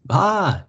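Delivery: short high yelp; a sudden cry as he slips; mild read-aloud scream on the ice; narrated scream. A narrator's reading. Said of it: "he screamed".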